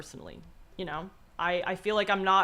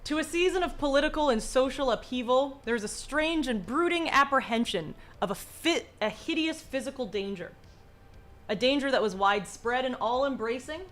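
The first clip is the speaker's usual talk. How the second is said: dramatic story reading. A narrator's reading. Reads Lovecraft story aloud.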